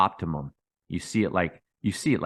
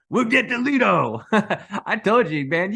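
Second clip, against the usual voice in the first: much higher, laughing through the words; 11 semitones higher, 4 dB louder, slower than usual. Real, not acted. YouTuber laughs to viewers about his Lido call, laughing. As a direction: chuckle at your own prediction.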